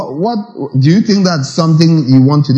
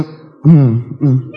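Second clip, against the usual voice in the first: low, brief listening hums; murmured "mm-hmm" to a ranter; noncommittal hum; 4 semitones lower than usual. Shown as a demonstration. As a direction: hum along without committing. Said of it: "just go".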